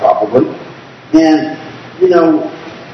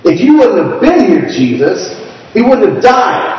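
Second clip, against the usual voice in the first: angry; 5 semitones higher than usual. Shown as a demonstration. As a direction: throw the blame at him. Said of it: "or they could have said it angrily".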